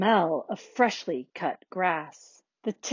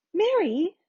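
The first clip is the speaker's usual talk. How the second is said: higher-pitched mother's call; 9 semitones higher, 4 dB louder than usual. A narrator's reading. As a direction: call to your daughter. Mom calls out to Mary.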